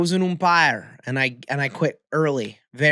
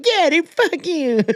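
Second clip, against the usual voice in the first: mock defiant retort; slower than usual. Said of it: "And I was like".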